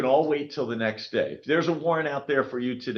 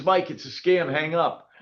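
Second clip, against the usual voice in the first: urgent warning; 6 semitones higher, 4 dB louder than usual. Retold or imitated. Sheriff warns him on phone.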